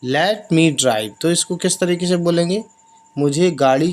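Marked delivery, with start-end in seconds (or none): 0.0-1.1 each English word spaced out slowly; slow dictation. Shown as a demonstration. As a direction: read it slowly for the learners. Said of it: "ड्राइव मतलब".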